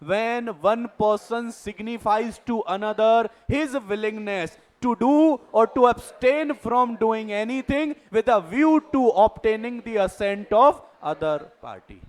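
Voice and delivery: reading a legal definition out slowly, word by word; slow, deliberate dictation of a definition. Shown as a demonstration. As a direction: spell out the definition slowly for note-taking.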